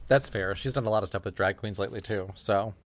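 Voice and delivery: talking with a mouth full of rice; chewing while talking. Real, not acted. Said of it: "Sorry, I got food in my mouth".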